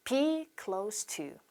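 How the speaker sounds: slow, soft "Be close to", s in "close"; model pronunciation. Shown as a demonstration. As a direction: spell out "Be close to" slowly for repeating. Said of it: "close라고 발음을 하셔야 합니다".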